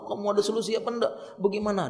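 high, quick, agitated plea; mock stressed-out whine; acted stress. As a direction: beg someone for a fix in pretend distress. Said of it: "Dia tampakkan wajah stres".

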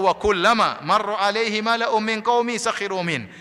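slow, drawn-out Arabic recitation; Quran recitation. Acted. Preacher repeats God's verse on mockers, measured recitation. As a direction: stretch the verse out evenly.

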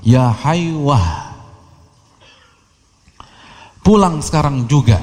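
calling her son home; mother calling out to her son; old mother calling. Retold or imitated. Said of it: "ibunya teriak". (ibu memanggil anaknya pulang)

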